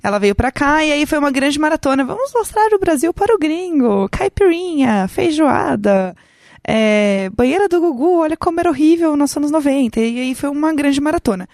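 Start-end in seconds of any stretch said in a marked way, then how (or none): 2.0-10.0 excited. Retold or imitated. Quoting excited tour plan.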